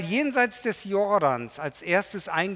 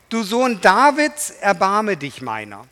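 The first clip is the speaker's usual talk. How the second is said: crying out; 4 semitones higher, 8 dB louder than usual. Acted. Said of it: "Er aber schrie noch viel mehr".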